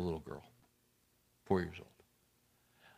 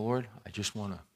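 quiet prayer; 3 semitones lower, 6 dB quieter than usual. Pretend. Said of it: "You know".

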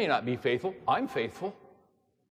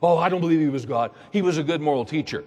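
skeptic's view; faster than usual. Retold or imitated. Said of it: "a lot of people take".

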